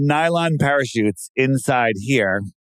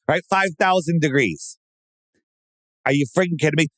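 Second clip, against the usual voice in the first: much higher, yelling in frantic alarm, settling back down by the end; panicked shouting; 6 semitones higher than usual. Pretend. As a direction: scream it like a terrified astronaut burning up. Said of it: "It should have been like".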